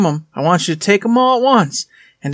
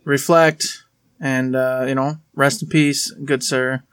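hushed, respectful memorial tone; 3 semitones lower than usual. Real, not acted. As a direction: lower your voice for a moment of silence. Solemn tribute to deceased.

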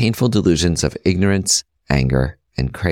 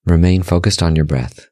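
guided meditation; 4 semitones lower than usual. Real, not acted. Host leading listeners through breath meditation, calm guided-meditation voice. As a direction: guide them gently in short, measured phrases, pitch settled and level.

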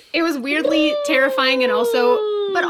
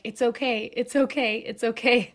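soothing reassurance; 5 dB quieter, slower than usual. Retold or imitated. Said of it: "I was like".

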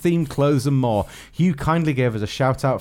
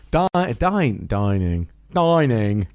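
tries at dynamic; much slower than usual. Shown as a demonstration. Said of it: "Bit more dynamic".

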